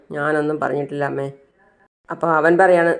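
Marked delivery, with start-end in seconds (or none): 0.1-1.3 softer and lower, almost under her breath; a retold quiet denial to the mother-in-law. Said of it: "അവൾ ശബ്ദം താഴ്ത്തി പറയാണ്". (ശബ്ദം താഴ്ത്തി പതുക്കെ)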